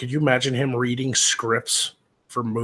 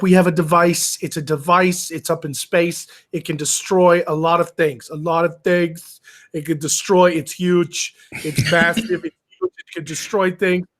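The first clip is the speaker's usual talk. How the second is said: mock Bond villain; 4 semitones higher, 5 dB louder than usual.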